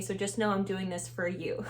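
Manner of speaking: hushed confiding aside; whispering. Real, not acted. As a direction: whisper it just to the viewer.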